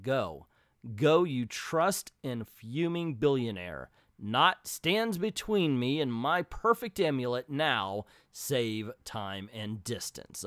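steadier second take of the line; better read. Shown as a demonstration. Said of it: "Okay, that's better".

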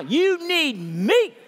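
slow, loud, with a laugh; drawn out through laughter. Shown as a demonstration. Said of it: "You tell 'em back right now".

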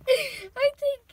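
a sharp, high burst of disbelief; sudden loud exclaim. Real, not acted. Owner startled by her cat, loud high exclaim. Laughing at cat's wild antics.

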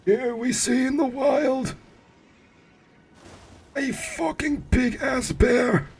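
very high, slow put-on wildlife narrator; documentary narrator voice. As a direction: play a hammed-up nature documentary narrator, high and drawn out. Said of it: "I don't like that for the documentary voice".

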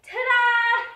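little showtime ta-da; cheery ta-da. Shown as a demonstration. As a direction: announce it like a grand finish.

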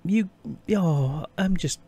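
overwhelmed and near tears, barely holding it; welling up. Real, not acted. Streamer overwhelmed by viewers' gifts, tearful and breaking. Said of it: "I'm, I'm welling up".

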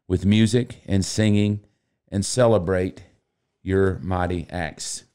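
measured, solemn Bible reading; scripture reading. Acted. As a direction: read it like scripture in church. Reads a psalm aloud.

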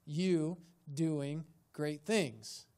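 slow, separated words with weight on "you"; "you" held and followed by a deliberate pause; stress on YOU. Shown as a demonstration. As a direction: set "you" apart, then pace out "doing great things". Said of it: "the emphasis isn't on".

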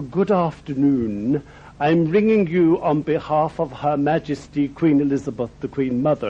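a hint of a grand royal secretary, measured and proper; very posh lady. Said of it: "this very posh lady said".

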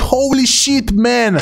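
high, eager hype; thrilled. Real, not acted. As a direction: gush over the new ability. Unlocks fines, thrilled. (entuziasmat, vocea sus)

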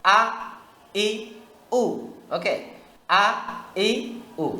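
"আ, ই, উ" each short and hard, set apart; crisp, separate "আ, ই, উ"; sharp hamza drill. Shown as a demonstration. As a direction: hit every vowel with a firm attack. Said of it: "এটা হলো তীক্ষ্ণ হামজার ক্ষেত্রে".

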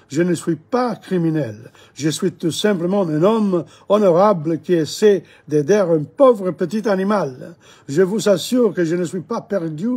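mildly exasperated, reading out the Englishman's protest; understated indignation, building a little in force; irritated protest. Acted. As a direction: act a touch fed up with the questioning. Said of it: "ai-je dit très agacé maintenant".

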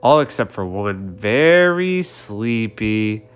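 storybook ending. A narrator's reading. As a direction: wind the story down gently. Closing lines of the story.

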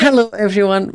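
mimicking the host's bright intro; cheeky echo of the YouTube intro; mock intro copy. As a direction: parrot her greeting back high and loud. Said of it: "I knew you were gonna do that".

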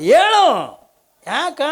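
high, loud sharp demand; husband's sharp call. Acted. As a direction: bark it at her. Husband snaps at wife. (ಗಂಡನ ಗಟ್ಟಿಯಾದ ಕೂಗು)

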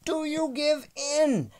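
very high, loud challenge; shouted demand. A narrator's reading. Boy demanding dinosaur's surrender.

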